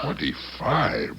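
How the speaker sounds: slow, stunned rising question; shocked disbelief. Acted. Lawyer stunned to hear his client's time is nearly up, slow incredulous question. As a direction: repeat the number as if you can't believe it.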